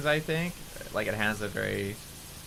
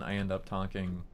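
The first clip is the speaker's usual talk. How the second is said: slightly lowered phone-call voice; deeper phone voice; 2 semitones lower, 3 dB quieter than usual. Shown as a demonstration. Streamer showing how they answer phone calls, slightly deeper. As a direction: drop the voice a touch, as if answering a call. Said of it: "I talk in a deeper voice".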